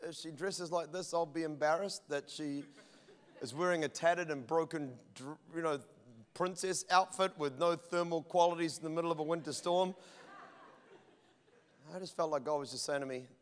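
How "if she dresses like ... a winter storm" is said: a soft, sheepish admission to God, much quieter; owning up quietly and a little embarrassed; sheepish confession. Retold or imitated. Pastor confessing to God, softly sheepish. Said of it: "one of those rare moments of honesty".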